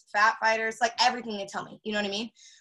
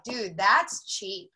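mock impressed; much slower than usual. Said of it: "everybody's like".

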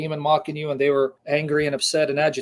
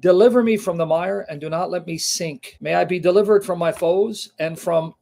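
fervent Bible reading; emphatic scripture reading. Acted. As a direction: proclaim the psalm like a prayer of distress. Reads psalm aloud.

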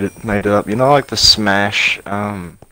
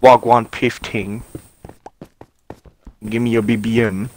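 mock London roadman accent; roadman slang; 2 semitones higher than usual. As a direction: put on roadman talk lightly. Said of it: "I know how to speak roadman".

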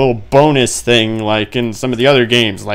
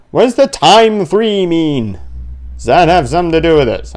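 higher, louder, fast questions; excited puzzling; 5 semitones higher, 4 dB louder than usual. Real, not acted. Gamer puzzling out a clock clue in a rush.

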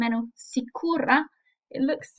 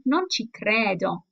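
disbelieving. Shown as a demonstration. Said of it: "needs to have some clear intonation".

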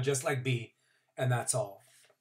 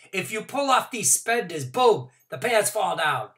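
put-on high, louder kid explaining quickly; worried child voice; 6 semitones higher, 6 dB louder than usual. A narrator's reading. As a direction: plead with the teacher nervously. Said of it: "I said".

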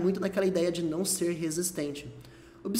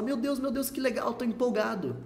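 mildly excited, higher pitch; empolgado, demonstração; 4 semitones higher than usual. Shown as a demonstration. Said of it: "tá falando empolgado". (empolgação encenada, voz mais aguda)

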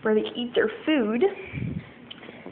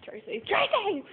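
imitating Faith; 10 semitones higher, slower than usual. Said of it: "that's what Faith says".

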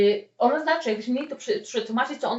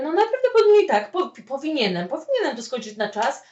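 mock hesitant yes; hedging answer; 3 semitones higher than usual. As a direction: dodge the question, pitched up.

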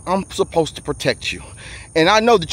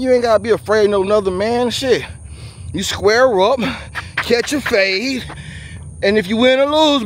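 preachy address; 3 semitones higher than usual. Acted. Addressing men like a sermon.

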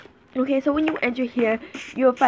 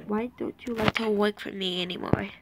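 pleading whisper; 5 dB quieter than usual. Real, not acted. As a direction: whisper it in exasperation.

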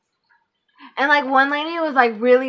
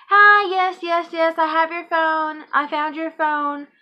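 mock-sweet lady voice, higher; imitating the lady; 5 semitones higher than usual. To the owner on the phone, the finder in a sweet higher voice. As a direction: play the overly eager finder, pitched up.

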